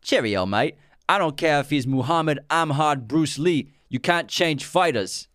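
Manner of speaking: badly attempted British accent for a movie line. Shown as a demonstration. Host quoting Snatch for his co-host to guess, amateur British accent. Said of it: "Do a British accent".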